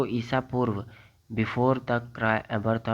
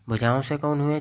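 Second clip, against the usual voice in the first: quiz question; 4 semitones higher, 4 dB louder than usual. Shown as a demonstration.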